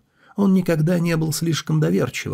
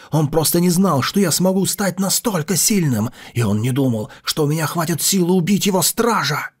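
angry shout; 3 semitones higher than usual. A narrator's reading. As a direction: yell it in fury. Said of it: "Мужчина закричал".

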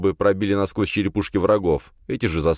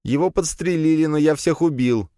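put-on higher, grinning young bluffer; cocky boast; 11 semitones higher than usual. A narrator's reading. Lyokha lies to the thugs, smiling and boastful. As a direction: brag with a grin.

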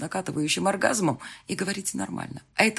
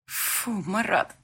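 disgusted; 4 semitones higher, much slower than usual. Acted. Disgusted slow protest.

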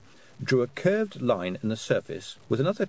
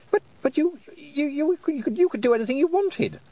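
high, loud stammering outburst; bursting out; 4 dB louder than usual. A narrator's reading. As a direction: blurt it, tripping over words. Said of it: "Roland burst out".

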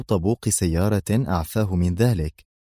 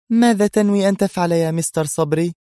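feigned indifference; 10 semitones higher, 5 dB louder than usual. A narrator's reading. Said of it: "متظاهرة باللامبالاة".

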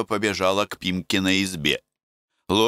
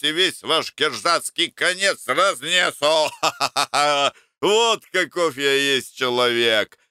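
put-on drunken boasting; 7 semitones higher, 3 dB louder than usual. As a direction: bellow like a drunk who fears nobody. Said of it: "Пьяный Макар ... повторял".

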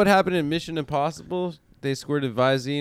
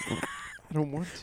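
very high, slow, thin voice; creepy guy impression; 10 dB quieter, slower than usual. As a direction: whine it out in a tiny high voice. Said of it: "sounds exactly like the guy".

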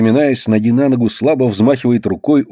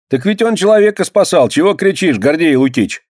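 put-on higher boy's voice, defending a friend; boy standing up; 8 semitones higher than usual. A narrator's reading. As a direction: pitch it high like a lad speaking up. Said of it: "вступается белобрысый паренёк".

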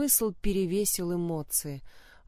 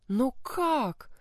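tearful bewilderment; 6 semitones higher than usual. A narrator's reading. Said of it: "со слезами недоумевала Анна".

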